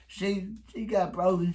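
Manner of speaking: Bobby. Retold or imitated. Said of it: "And then Bobby repeats".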